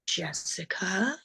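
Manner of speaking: very slow, soft doctor imitation; imitated unhurried, low-key doctor; cool doctor. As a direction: draw the name out quietly and coolly. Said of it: "cool as he".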